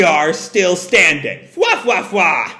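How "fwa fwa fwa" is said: mock Killer laugh.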